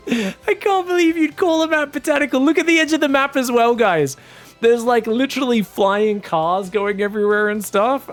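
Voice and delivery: loud, high, incredulous rant; exasperated rant. Real, not acted. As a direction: rant at the map makers in disbelief. Caster ranting at map makers.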